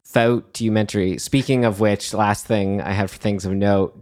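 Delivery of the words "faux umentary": faux said as "fow" in a light Australian accent. Shown as a demonstration. Podcaster trying the coined word on co-host's suggestion, Australian accent. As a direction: try the word with an Aussie twang. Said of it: "What if it was with an Australian accent?".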